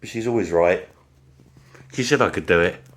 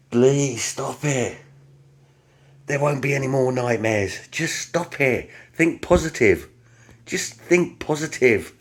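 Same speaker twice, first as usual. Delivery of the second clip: pleading, pitched up and drawn out, telling himself to stop; echoing his wife; 6 semitones higher than usual. Retold or imitated. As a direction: talk yourself down in the wife's words. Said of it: "I can hear Sue saying to me".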